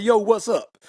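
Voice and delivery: put-on "Yo, what's up?" in a Southern country accent; country boy accent. Country boy passing as a New Yorker, country accent. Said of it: "I sound like a country boy".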